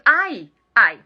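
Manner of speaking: "ai, ai" like two quick pinches; pinched "ai, ai" for the English sound; repeated ouch. Shown as a demonstration. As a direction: say "ai, ai" as a little yelp. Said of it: "a pronúncia é isso".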